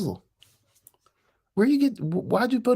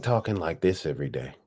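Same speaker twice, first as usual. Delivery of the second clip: breathy hushed whisper, much lower pitch; 6 dB quieter than usual. Real, not acted. To viewers, showing off his new voice in a whisper. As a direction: whisper it close to the mic like a secret. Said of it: "this is how I wanna talk every day".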